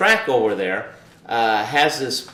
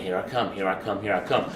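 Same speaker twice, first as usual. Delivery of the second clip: muttered mantra; 4 semitones lower, 5 dB quieter than usual. Retold or imitated. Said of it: "And so I started saying".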